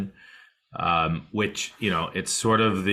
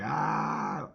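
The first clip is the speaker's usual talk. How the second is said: drawn-out, softer "ah" rising in pitch; mock frazzled groan; 5 semitones higher, 5 dB quieter than usual. Teacher imitating a racing mind for listeners, mock frazzled "aah". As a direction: imitate a mind crawling with ants, held back in volume. Voices the ants-in-mind feeling.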